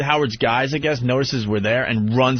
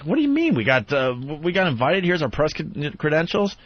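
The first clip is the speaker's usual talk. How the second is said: surprised protest; 2 semitones higher than usual. Retold or imitated. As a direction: act shocked and confused. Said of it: "I'm like".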